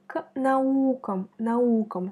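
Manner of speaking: наукам with the U of -нау- leaned on; stress on the U. Shown as a demonstration. Teacher marking the stressed vowel for a learner, careful stress. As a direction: hit the U in наукам. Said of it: "c'est ou qui est frappé par l'accent".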